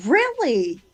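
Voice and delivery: high, falling, drawn-out disbelief; retold "oh, seriously?" to a child; incredulous. Mother retelling her answer to her son's brush-off, incredulous.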